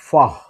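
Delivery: ഫഹ് loud, ending on an h; pronunciation demo. Shown as a demonstration. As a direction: say ഫഹ് as one firm, separate syllable. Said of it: "പ്രൊനൗൺസിയേഷനാണ്". (ഫഹ് ഉറക്കെ, വേറിട്ട അക്ഷരമായി)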